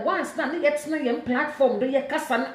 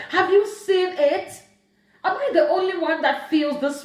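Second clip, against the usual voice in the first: exasperated challenge; 4 semitones higher than usual. Real, not acted.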